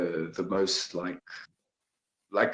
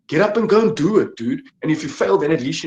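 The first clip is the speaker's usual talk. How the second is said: fired-up urging; 6 semitones higher, 7 dB louder than usual. Real, not acted. Urging listeners to act now.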